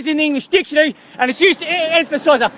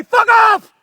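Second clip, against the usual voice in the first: shouted quote; 7 semitones higher than usual. Retold or imitated. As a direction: burst out with it in alarm. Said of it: "I'm gonna say".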